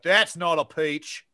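slow mock Australian movie catchphrase; Australian accent. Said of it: "Dundee reference".

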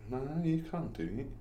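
ordinary talk, nothing marked

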